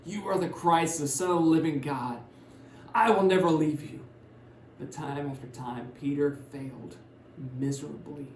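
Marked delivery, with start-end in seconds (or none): 0.0-4.0 bold proclamation. Retold or imitated. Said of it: "made bold proclamations".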